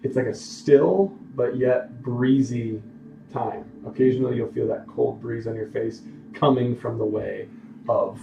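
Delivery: measured storytelling in separate phrases; game master narration. Acted. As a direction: describe the scene to your players, pausing between details. Game master sets scene.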